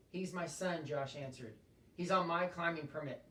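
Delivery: reading a novel aloud to the class; steady classroom read-aloud with voiced characters; teacher reading a chapter aloud; story narration. A narrator's reading.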